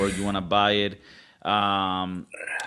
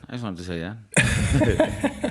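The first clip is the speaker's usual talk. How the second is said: slow; much slower than usual. Shown as a demonstration. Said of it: "repeats the same line".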